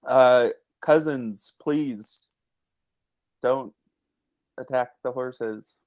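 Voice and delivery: halting, half-hearted pretend plea; unconvincing plea. Player pleading with giant cousins, halting and unconvincing. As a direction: plead lamely, with long gaps between words. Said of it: "Wow, very convincing. So convincing".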